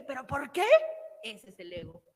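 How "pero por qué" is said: whining ego. Retold or imitated. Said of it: "Ese que dice".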